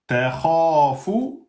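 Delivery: takhafu with the vowels of kha and fu drawn out; long vowel. Shown as a demonstration. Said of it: "avec la voyelle longue".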